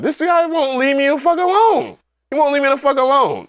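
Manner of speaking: high, whining mock complaint; hammed-up fed-up wail; retold exasperation. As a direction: moan it like you're being pestered endlessly. Retelling exasperation at a heckler.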